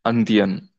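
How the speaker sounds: Indian said as "an-dyan"; French pronunciation. Shown as a demonstration. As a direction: start Indian with "an", French-style. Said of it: "Now we have to pronounce here".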